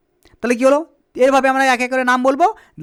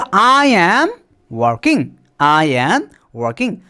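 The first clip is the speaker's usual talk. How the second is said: slow modelling; 5 semitones lower, much slower than usual. Shown as a demonstration. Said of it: "teacher slowly modelling sentence".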